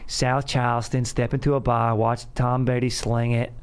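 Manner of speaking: a hint of Boston tough guy; lightly voiced Boston accent; Wahlberg impression. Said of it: "That's a little Wahlberg".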